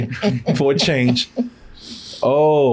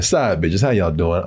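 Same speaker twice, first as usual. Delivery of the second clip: much lower, drawn-in teasing voice; low sly greeting; 12 semitones lower than usual. Acted. Streamer greeting the side chat, low and teasing. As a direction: drop the voice low to tease.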